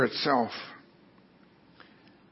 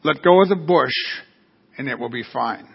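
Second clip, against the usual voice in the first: calm; 4 semitones lower than usual. Acted. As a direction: reassure evenly, easing down at the end. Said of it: "said the calm voice".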